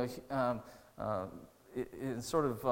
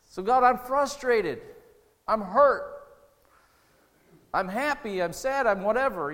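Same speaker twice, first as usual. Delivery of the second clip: raised, louder, pleading prayer; honest prayer; 4 semitones higher, 5 dB louder than usual. Acted. Preacher acting out his own honest prayer on his knees, raw pleading. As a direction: pour it out to God, raw and frustrated.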